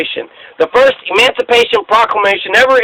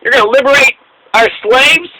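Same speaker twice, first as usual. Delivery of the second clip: mock disbelief; 5 semitones higher than usual. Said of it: "when George Washington said".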